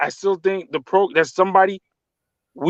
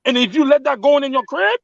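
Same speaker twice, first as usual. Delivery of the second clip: raised pitch, fired-up insistence; heated, emotional; 5 semitones higher than usual. Real, not acted. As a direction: push the point hard, getting worked up. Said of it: "you seem a bit emotional".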